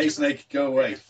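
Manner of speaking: pretend shout. Podcaster shows what they would shout at snakes, mild shout. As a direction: call it out, half-hearted shout. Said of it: "That's what I would shout".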